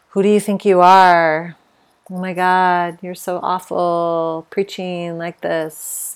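harsh inner critic. Retold or imitated. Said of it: "all those old voices".

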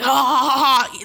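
imitated loud guffaw; hammed-up laugh, unbothered by the yelling; obnoxious laughing. Arthur laughing at grandfather's scolding, obnoxious mock laugh. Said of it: "laughing about the situation".

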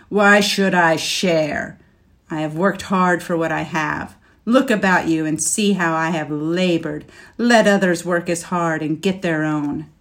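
proudly refuse, loudly; indignant. Acted. Dragon rejects sharing, louder.

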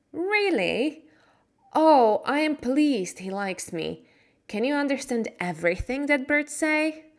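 put-on girl asking the boy in wonder, eager; young Mary.

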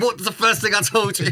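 furious. Retold or imitated. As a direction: imitate an exasperated boss scolding. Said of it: "he'd be furious. He's like".

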